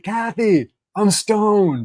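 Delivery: high mock call to the wife; retold yell. Husband calling after his wife with the news, retold yell. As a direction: imitate calling out to someone, pitched well up. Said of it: "I yelled after my wife".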